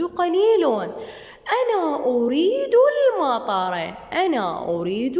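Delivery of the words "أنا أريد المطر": put-on lightly higher, childlike voice for the boy; voicing the boy. Shown as a demonstration. Teacher voicing the boy who wants rain, lightly childlike. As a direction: speak as the boy in the story. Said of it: "repeats lesson line".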